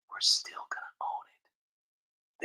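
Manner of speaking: slow, sinister whisper; conspiratorial whisper. Pretend. Vlogger voices government bigwigs gloating in a slow, sinister whisper. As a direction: hiss it like a villain's secret.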